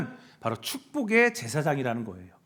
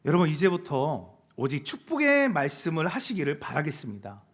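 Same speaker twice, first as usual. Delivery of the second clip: ordinary delivery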